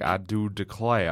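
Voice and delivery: slow genteel Southern belle drawl; slow mock Southern belle; Southern belle accent. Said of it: "like that antebellum".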